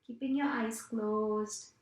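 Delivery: measured meditation-teacher voice with long pauses; guided meditation. Acted. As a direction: guide listeners through breathing in unhurried, spaced phrases. Leads a breathing meditation.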